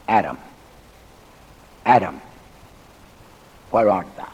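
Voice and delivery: low, subdued call with long pauses; solemn calling. Acted. Preacher voices God seeking guilty Adam in the garden, solemn calling. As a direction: drop low and let each name hang.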